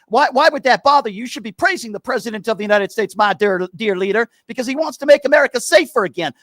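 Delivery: Steven caller voice. Acted. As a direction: sneer every again like a talking-point parrot. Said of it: "I'm gonna be Steven".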